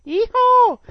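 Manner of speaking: loud, high yeehaw whoop; cowboy yeehaw. Acted. Radio host whoops to his listeners, loud yeehaw. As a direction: whoop it out like a rodeo rider.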